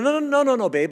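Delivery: high, insistent no's to his wife; mock pleading. Husband pleading with his wife for a new shirt, high.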